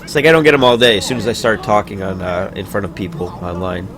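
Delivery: talking through hiccups; hiccuping between words. Real, not acted. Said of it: "I've got the hiccups again".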